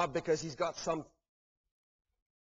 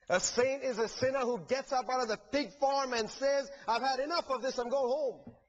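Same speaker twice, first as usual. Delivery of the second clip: raised, driving sermon voice, higher and rising with each saint line; full-force preaching; 6 semitones higher than usual. Acted. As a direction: build the refrain like a preacher lifting the room.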